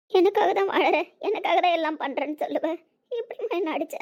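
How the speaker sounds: high, wounded voice; hurt reproach. Acted. Wounded family quarrel over a slap, high hurt reproach.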